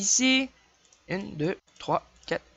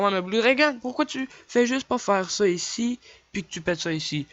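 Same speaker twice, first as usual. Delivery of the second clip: mock viewer question; 3 semitones higher, 3 dB louder than usual. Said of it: "Là, vous allez dire".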